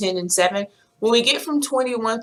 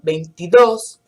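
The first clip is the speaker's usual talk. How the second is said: veintidós with the stress on the final dós, a bit louder; 3 semitones lower, 5 dB louder than usual. Shown as a demonstration. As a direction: hit the last syllable of veintidós. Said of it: "put the stress when you pronounce it".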